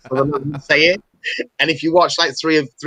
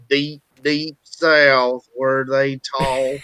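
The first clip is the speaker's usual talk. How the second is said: Southern drawl; much slower than usual. Pretend. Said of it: "That's actually a really good accent".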